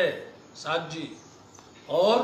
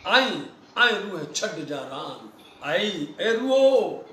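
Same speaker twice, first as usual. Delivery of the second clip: slow, tender calling of the souls; slow loving call to wake; lovingly; 3 dB louder, much slower than usual. Retold or imitated. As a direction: coax them awake gently, drawn out. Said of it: "कितने प्यार से बोलते".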